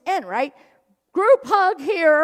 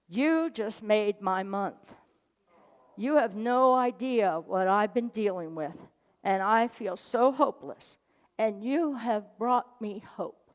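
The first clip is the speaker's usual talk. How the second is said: tearful confession; 6 semitones lower, 6 dB quieter than usual. Retold or imitated.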